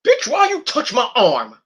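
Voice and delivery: high, slow mock indignation; annoyed Kevin. Kevin brushing off Logan Paul, mock annoyed. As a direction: sneer at the hand on your arm. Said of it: "Kevin's like".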